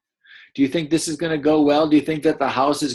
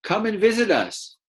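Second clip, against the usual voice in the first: a much higher, energetic call; extra energy; 9 semitones higher than usual. Shown as a demonstration. Teacher showing how the dassies shout, energetic. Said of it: "giving their voice a little extra energy".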